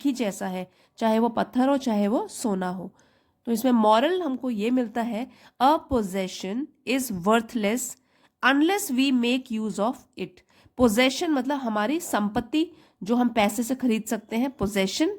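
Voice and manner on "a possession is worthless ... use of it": very slow, deliberate reading of the moral; teacher slowly reading the story's moral; slow reading aloud. Shown as a demonstration. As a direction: lay out each word slowly for the class.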